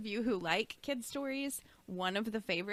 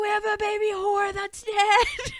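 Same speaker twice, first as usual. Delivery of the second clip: put-on high, loud kid announcement; mock screaming, pitched way up; imitated child's scream; 11 semitones higher, 9 dB louder than usual. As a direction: yell it like a child telling the whole neighborhood. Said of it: "he's screaming it so loud".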